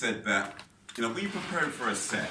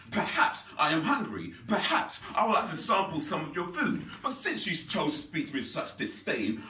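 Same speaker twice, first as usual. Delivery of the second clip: hammed-up indignant speech, measured and emphatic; mock offended; 3 semitones higher than usual. Offended rider to restaurant lady, hammed-up indignation. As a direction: declaim it with wounded dignity. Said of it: "I was offended by this".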